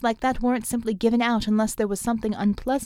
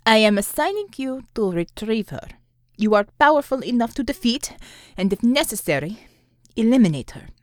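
loud, firm commanding voice; commanding order; 5 dB louder than usual. Acted. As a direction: give it as a hard order. Commissar giving a kill order.

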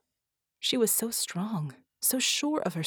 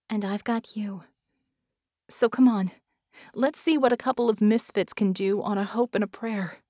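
Vicky, rallying; 2 semitones higher, 4 dB louder than usual. Acted. Vicky rallies her fellow misfit for the fight, encouraging. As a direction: build from reassurance into a rousing push.

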